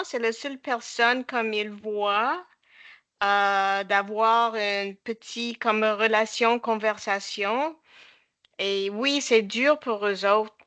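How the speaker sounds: English-speaker's accent in French; French spoken with an anglophone accent; foreign accent in french. Real, not acted. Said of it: "Excuse-moi mon français".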